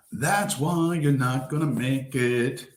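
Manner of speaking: half the speed, each word spaced out; slow, drawn-out repeat. Real, not acted. Telling his viewers they won't make it, slowly. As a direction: let it sink in, slowly.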